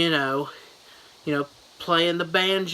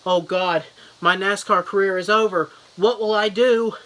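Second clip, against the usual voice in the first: mock panic; 3 semitones higher, 3 dB louder than usual. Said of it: "in a panic and he's like".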